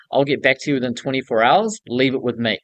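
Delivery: mean every word of it; with conviction. Shown as a demonstration. Promising a client a reply, with conviction. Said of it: "say that shit with conviction".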